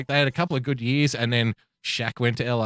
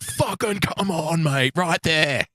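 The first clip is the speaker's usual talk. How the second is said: mock pumped-up fan. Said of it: "did you do the thing where you".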